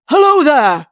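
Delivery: loud, high call to the sentry; bellowing. A narrator's reading. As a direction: bellow it through the door. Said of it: "he bellowed to the sentry".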